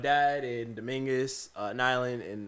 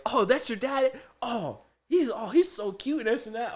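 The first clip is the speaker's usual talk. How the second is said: high-pitched cooing in imitation; mock gushing; 8 semitones higher than usual. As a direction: imitate a coworker swooning over someone's dad. Desiree gushes over his dad.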